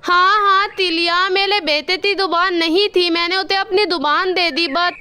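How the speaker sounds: lisped, "अथा दो तल" for "अच्छा तो सर"; lisping crow. Acted. Kalu crow to the doctor, lisping after the surgery. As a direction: say "थाता" with a childlike lisp. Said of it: "आपकी आवाज़ बिल्कुल भी अच्छी नहीं लग रही।".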